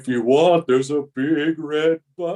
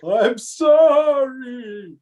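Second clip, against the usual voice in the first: slow, drawn-out ghostly moan; a hint of a ghost haunting the room; 8 semitones higher, much slower than usual. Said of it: "Who was speaking in that ghostly voice?".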